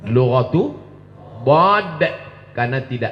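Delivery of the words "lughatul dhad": "dhad" with a heavy emphatic d; "Lughatul dhad" said with care; dhad letter. Shown as a demonstration. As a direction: stress the Arabic "dhad" sound. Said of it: "disebut dengan lughatul dhad".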